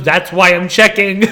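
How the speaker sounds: slow, mildly defensive imitation; retold defensive retort, drawn out. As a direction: imitate a man justifying himself, word by word. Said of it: "he got defensive".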